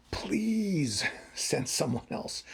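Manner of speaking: slow, breathy-free whispered plea with a broken laugh; desperate whisper. Retold or imitated. Moses begging God to send someone else, whispered. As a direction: beg in a hushed whisper, slowly. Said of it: "Moses gets desperate".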